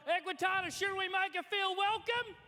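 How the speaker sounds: crowd call. Acted. Calling out to the crowd.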